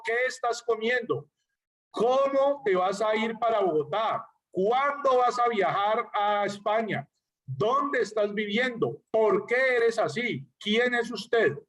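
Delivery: slow, careful example questions; questioning examples. Shown as a demonstration. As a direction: pose each one as a question, lingering on the question word. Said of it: "Cuando yo pregunto".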